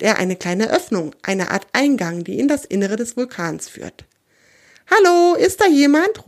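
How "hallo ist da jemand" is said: high, loud call into an opening; raised storybook call for anyone inside. A narrator's reading. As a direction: shout a searching hello, drawn up in pitch. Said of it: "ruft er in die Öffnung hinein".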